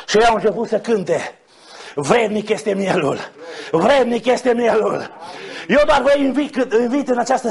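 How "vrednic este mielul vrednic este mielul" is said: slow, restrained quote of a hymn line; measured recital. Retold or imitated. Preacher quoting the song they began to sing, measured recital. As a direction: recite the praise slowly and evenly.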